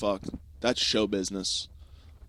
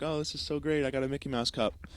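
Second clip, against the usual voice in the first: put-on high, soft little-kid voice; delighted kid; 6 semitones higher, 6 dB quieter than usual. Lost kid given a cup, softly delighted. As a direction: imitate a child pleased with a gift.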